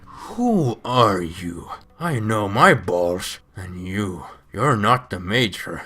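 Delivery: slow, heavy villain growl; slow menacing brute. Retold or imitated. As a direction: drag it out like a hulking brute. Vulcan voiced, slow deep menace.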